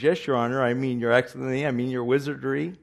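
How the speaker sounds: a hint of fumbling, fast correction; flustered Scarecrow. Scarecrow correcting himself before the wizard, flustered. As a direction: stumble over the titles. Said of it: "The Scarecrow approaches".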